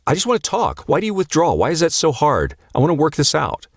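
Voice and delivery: high, pleading imitation of the needy pursuer; a hammed-up anxious husband chasing his wife; anxious old self. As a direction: play the old you begging her to talk. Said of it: "the old you might say".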